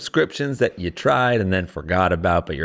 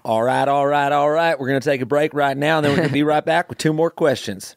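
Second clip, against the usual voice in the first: Southern accent; 4 semitones higher than usual. Shown as a demonstration. Host trying a Southern accent for the edit. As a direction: ease into a mild Southern accent. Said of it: "let's do, like, Southern accent style".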